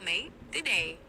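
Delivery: casual Australian greeting; Aussie accent. Shown as a demonstration. AI assistant shows the user an Aussie accent. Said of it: "Can you do an Aussie accent?".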